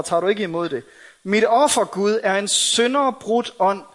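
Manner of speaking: measured, solemn recitation of a confession; penitential psalm reading. Acted. David confessing his sin to God, solemn psalm reading. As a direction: read it as a heartfelt prayer for mercy.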